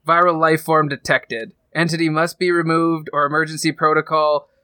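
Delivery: flat computer announcement voice; robot voice. Acted. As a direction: read it like a ship's AI. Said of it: "a robotic voice goes over the comm saying".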